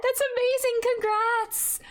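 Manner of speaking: "That's amazing" squealed high and delighted; excited. Real, not acted. Streamer squealing "That's amazing" at chat's finished draft. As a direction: gush the word "That's" up high. First reaction to chat news.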